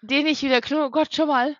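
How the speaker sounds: starting to cry mid-sentence; blubbering. Real, not acted. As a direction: voice welling up with tears. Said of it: "fang ich grad an zu heulen".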